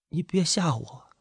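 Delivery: stunned, small voice; trembling, frightened. A narrator's reading. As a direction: plead faintly through trembling lips. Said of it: "嘴唇哆嗦着".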